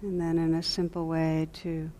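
calm meditation guide, long silences between phrases; guided meditation. Real, not acted. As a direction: gently guide them into stillness, leaving lots of space.

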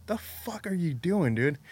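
high, slow incredulous demand; retold disbelief. To the drunk roommate hitting the roof, high slow incredulous. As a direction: draw it out, can't believe what he's seeing.

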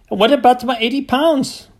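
furious farmer scoffing; indignant farmer. Acted. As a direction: scoff at the vet in outrage. Cranford demands money.

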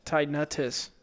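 Tinnitus as TIE-nuh-tus; long I in the first syllable of Tinnitus; pronounced first I. Shown as a demonstration. Trying out another version, Tinnitus as TIE-nuh-tus. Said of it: "you can pronounce the I".

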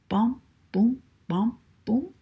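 bouncy, punched bom-boom beats; storybook stomping sound; imitated footsteps. A narrator's reading.

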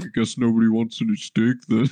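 lightly imitating a hurt cook; a touch of sulky disappointment; mock upset. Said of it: "he's all, like, upset".

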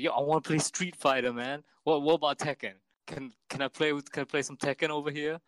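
douchey dude voice. Retold or imitated. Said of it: "this is how he was talking".

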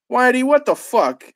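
shocked shout at his friend; exclaimed. Acted. Eric shouting at Whitey, a shocked outburst. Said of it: "exclaimed Eric".

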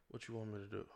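soft, calm, romantic ask. Shown as a demonstration. Coaching men in bed, a calm romantic ask. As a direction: murmur it like a lover. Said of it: "in a calm, romantic voice".

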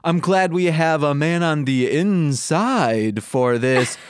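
lightly voiced cartoon bear, slow rhyme ending; Yogi Bear voice. Yogi redoing his rhyme, lightly voiced bear. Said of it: "I'm bad at rhymes today".

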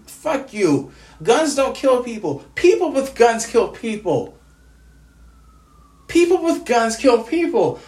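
emphatic, heated insistence; angry rebuttal. Real, not acted. Bereaved friend rebutting a gun slogan, heated anger. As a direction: hammer each word in real anger.

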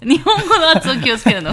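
loud, high, incredulous echo with laughter; laughing mock indignation. Real, not acted. Host told to watch her Japanese pronunciation, laughing indignation. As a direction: throw the advice back, cracking up.

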